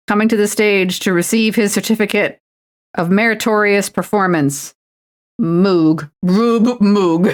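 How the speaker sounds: hammed-up award presenter calling a name; mock ceremony announcer. Streamer playing presenter calling Moog to the stage, mock announcer. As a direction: announce it like a prize-giving.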